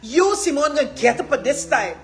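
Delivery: loud, high prophetic proclamation; ringing, emphatic revival-preacher delivery; voice of God. Acted. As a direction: preach it like a divine command. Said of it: "This is God saying".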